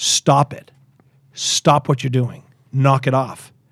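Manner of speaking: mock snapping voice. Retelling how someone snapped at the speaker, retelling someone snapping. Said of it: "he friggin' snapped at me".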